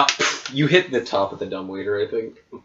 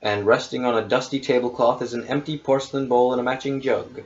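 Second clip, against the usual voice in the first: measured game master narration; scene setting; 3 semitones higher than usual. Acted. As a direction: read the room description evenly. Game master reads room description.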